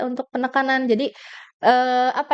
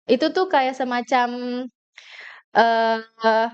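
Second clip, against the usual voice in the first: drawn-out hesitant filler; filler hesitation demo; much slower than usual. Shown as a demonstration. Speaker showing the audience what filler words sound like. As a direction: stall on the filler deliberately. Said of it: "kayak aku tadi tuh".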